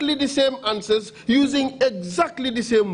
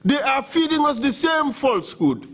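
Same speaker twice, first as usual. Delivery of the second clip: raised voice, cutting accusation; indignant; 5 semitones higher than usual. Real, not acted. Counsel indignant at scripted answers.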